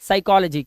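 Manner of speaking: psychology slowly, no P sound, starting at sai; slow, careful psychology with a silent P. Shown as a demonstration. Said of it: "पी silent होता है".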